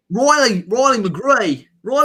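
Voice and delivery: drawn-out name in a put-on Southern Hemisphere accent. Watchalong host announcing the sub, put-on accent. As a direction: stretch the name in a mock South African or Aussie accent. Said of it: "doing a South African accent".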